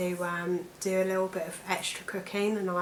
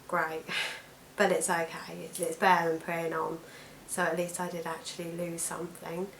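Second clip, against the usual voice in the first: hoarse croaky voice from allergies. Real, not acted. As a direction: talk through a croaky throat. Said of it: "my croaky voice".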